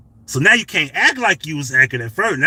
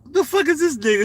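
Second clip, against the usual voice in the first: retold outrage; 13 semitones higher than usual. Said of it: "So I said".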